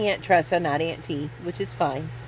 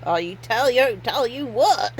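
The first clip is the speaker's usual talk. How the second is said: put-on Tennessee accent; 4 semitones higher than usual. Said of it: "And she talked like this, like she from Tennessee".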